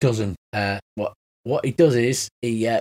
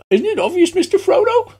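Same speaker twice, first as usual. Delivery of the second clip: much higher, louder hobbit squeak; 6 dB louder than usual. Acted. Kenku answers the cop in a high hobbit voice. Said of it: "I should have done the sound voice".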